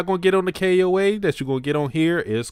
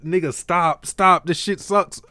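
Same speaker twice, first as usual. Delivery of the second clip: mild mock scream, pitched higher; half-scream a protest, imitating someone; retold screaming; 6 semitones higher than usual. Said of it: "He sees Hayasaka screaming".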